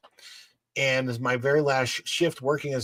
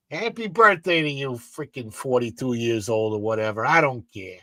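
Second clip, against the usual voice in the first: offhand New York Italian grumble, easing down. Shown as a demonstration. Host winding down Sonic's birthday wish, dismissive New York Italian accent. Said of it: "like a New York Italian".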